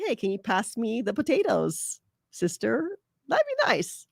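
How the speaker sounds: soft, sweet and kind, rising high on "nice"; gentle, courteous demo of asking for the potatoes; polite request. Shown as a demonstration. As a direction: ask nicely like a gentle sibling.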